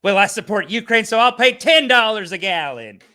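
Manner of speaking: hammed-up virtue-signalling host; mocking imitation. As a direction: parody a sanctimonious host. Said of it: "He's saying it like".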